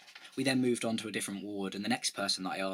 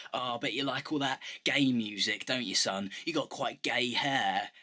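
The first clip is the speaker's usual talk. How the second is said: manly voice. Retold or imitated. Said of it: "that's my manly voice".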